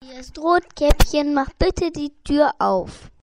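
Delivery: wolf playing the sweet little girl; wolf faking sweetness. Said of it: "Der Wolf verstellt die Stimme".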